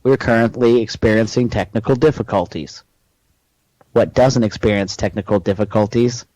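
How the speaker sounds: local discount-ad pitchman voice; Chuck Walker. Acted. Salesman pitching discount mobile homes, ad voice.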